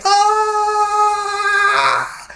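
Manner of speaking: very high shriek, imitating; imitated scream. Date screaming as they head for the edge. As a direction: scream like the bike's out of control. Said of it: "she's just like".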